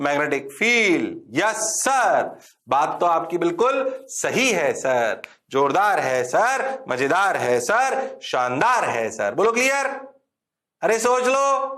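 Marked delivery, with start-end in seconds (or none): 1.4-9.3 slow, drawn-out eager students; hammed-up students fawning over sir; mock student chorus. Teacher playing class praising him, slow and eager. 9.4-11.7 teasing challenge. Acted. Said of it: "teasing challenge to class".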